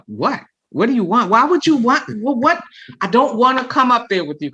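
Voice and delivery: rising, flustered inner voice; confused what-do-you-want thoughts; startled and unsure, talking to herself; inner panic. Retold or imitated. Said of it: "to myself".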